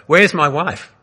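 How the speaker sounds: high, loud desperate cry. A narrator's reading. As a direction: call out in anguish into the dark. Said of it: "Again he cried".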